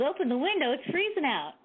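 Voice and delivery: mock the clueless father; a hint of a puzzled old man; imitating dad. Dad voiced in a story.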